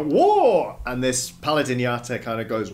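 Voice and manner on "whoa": loud surprised crowd gasp; startled cry, high and loud; crowd whoa. Retold or imitated. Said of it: "people just, like, go".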